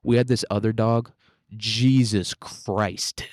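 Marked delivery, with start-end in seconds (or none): 1.6-3.2 a real, slow startled gasp of "Jesus Christ"; startled by the thunderclap. Real, not acted.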